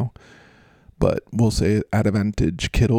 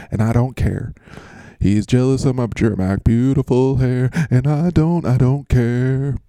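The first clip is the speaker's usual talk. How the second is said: mock George Kittle hair ad.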